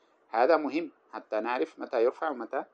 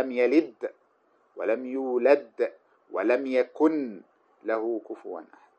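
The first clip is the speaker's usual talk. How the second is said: slow measured Quran recitation; Quranic recitation; slower than usual. Acted. Teacher reciting a Quran verse to students, slow measured recitation. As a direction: recite the verse slowly and reverently.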